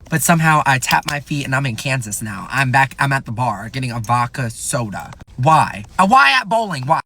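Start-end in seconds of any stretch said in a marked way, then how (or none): 5.4-7.0 mock outrage. Real, not acted. Outraged at bar prices.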